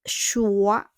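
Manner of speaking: "choisir" sounded out with S voiced as Z; S becomes Z. Shown as a demonstration. Teacher corrects "choice" to French, S as Z. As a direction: stretch "choisir" and buzz the S like Z. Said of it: "Le S will become Z".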